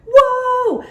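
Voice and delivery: high, slow, loud wondering whoa; amazed whoa. Real, not acted. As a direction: let the wonder spill out slowly. Marveling at kicks.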